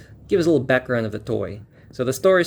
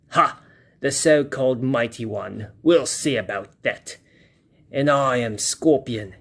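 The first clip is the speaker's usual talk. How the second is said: villain voice. Acted. Villain lines from the comic.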